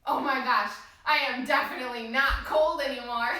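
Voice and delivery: winded after the exercise; talking between breaths. Real, not acted. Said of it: "But I'm out of breath".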